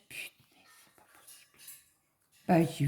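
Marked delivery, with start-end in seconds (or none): 0.1-1.6 breathless whispered swear under the breath; unvoiced aside of disbelief; whispered curse. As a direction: hiss it out as a secret curse.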